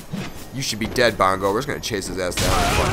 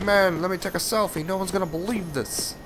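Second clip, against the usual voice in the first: lightly voiced, higher giddy tourist; excited fan; 9 semitones higher, 6 dB quieter than usual. Voicing his own character as a thrilled fan. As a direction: play the character as a starstruck selfie-taker. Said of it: "He's like".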